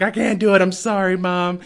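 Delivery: high-pitched pretend tearful whimper; mock crying. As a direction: imitate a sobbing daughter, hammed up. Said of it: "she's crying and holding the rifle".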